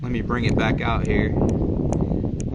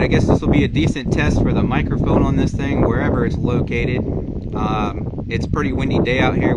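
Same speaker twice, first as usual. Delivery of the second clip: raised voice against the wind; shouting over wind; 5 dB louder than usual. Real, not acted. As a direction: talk loud over gusts. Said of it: "hopefully you guys can hear me over the wind".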